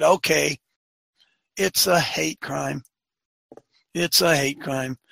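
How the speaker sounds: slow, mock-reluctant admission; grudging concession. City finally conceding after some badgering, grudging. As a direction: drag it out as if badgered into it.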